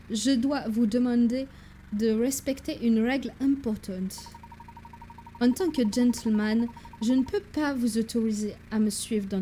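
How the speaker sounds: gentleman professor with a hint of English accent; measured French with a light English accent. Professor sets his assistant a rule, light English accent. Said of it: "mon accent anglais qui vire vers l'allemand".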